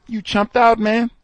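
high, loud laughing taunt; mocking laugh. Boss jeering at the worker, high laughing taunt. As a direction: laugh at him while you jeer.

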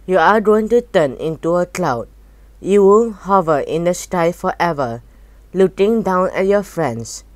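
a hint of a cold alien passing sentence; menacing alien blob. Blobhead pronounces the boy's fate.

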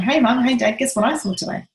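mock a child bursting in with news; lightly voiced excited child; excited kid. Kid running home excited.

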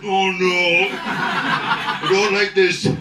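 hammed-up put-upon Irishman; resigned Irish shrug. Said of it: "and you go".

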